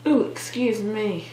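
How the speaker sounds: hiccuping mid-sentence; hiccups. Real, not acted. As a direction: caught by a hiccup. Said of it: "I got the hiccups".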